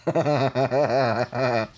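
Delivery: acting out a held-back laughing fit; long laugh as if from the background; imitated stifled laugh. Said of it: "stifling my laugh as much as I can".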